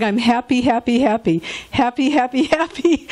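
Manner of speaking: happy chant building into a laugh; imitating repeated happiness. Cardiologist thrilled at patient's good results, mock-happy repetition. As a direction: mildly imitate a delighted doctor repeating himself. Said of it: "he just kept repeating it over and over".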